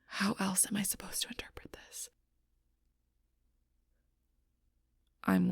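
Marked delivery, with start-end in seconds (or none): 0.1-2.1 hushed, soft, wounded reproach; quiet hurt. Acted. Confiding betrayal to someone who doesn't understand, hushed and hurt. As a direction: drop to a near-whisper, with halting pauses. Hurt confession after the quarrel.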